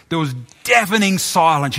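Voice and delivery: ordinary talk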